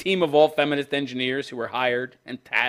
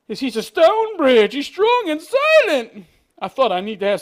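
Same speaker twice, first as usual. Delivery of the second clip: mock gushing artist; 11 semitones higher, 6 dB louder than usual. Host mocking the bridge lover's quote with swooning delivery. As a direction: swoon over a stone bridge.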